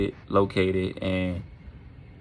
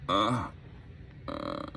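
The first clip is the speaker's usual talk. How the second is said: groggy groan; 4 semitones lower, 8 dB quieter than usual. Acted. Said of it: "Mandy starts to come to".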